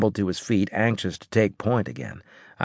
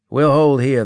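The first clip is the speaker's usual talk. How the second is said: raised commanding voice; firm order; 6 semitones higher, 7 dB louder than usual. Acted. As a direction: call the halt with authority.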